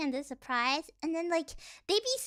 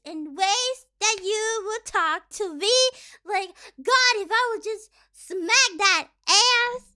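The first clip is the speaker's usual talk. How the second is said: brain rot fangirl; 2 semitones higher, 5 dB louder than usual. Retold or imitated. Mocking a TikTok fangirl thirsting over Gojo, loud. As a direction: swoon over Gojo, shameless. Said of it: "real life TikTok brain rot fangirl".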